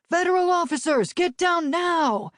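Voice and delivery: yelled order. A narrator's reading. Nate shouting at people in the park to get down. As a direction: bark it to clear the park. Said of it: "Nate yelled".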